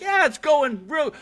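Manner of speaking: retold outburst. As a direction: act out the dad's loud, high-pitched reply. Retold dad snapping at dinner.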